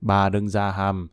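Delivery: low, slow, quiet disdain; contemptuous. A narrator's reading. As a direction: drag it out with quiet scorn. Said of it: "Cang bịt mũi khinh bỉ".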